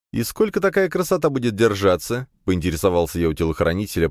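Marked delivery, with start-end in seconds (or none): 0.1-2.3 stifled laugh. A narrator's reading. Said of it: "прыснув со смеху".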